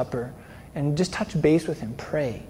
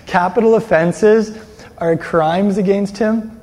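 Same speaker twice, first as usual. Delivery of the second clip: capital offenses drawn out louder and slower; slow emphasis; 4 semitones higher, 6 dB louder, slower than usual. Real, not acted. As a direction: lean hard on capital offenses, slowly. Preacher stressing sins against God.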